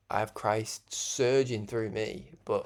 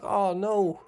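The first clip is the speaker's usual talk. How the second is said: retold alarm; 8 semitones higher, 7 dB louder than usual. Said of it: "I was like".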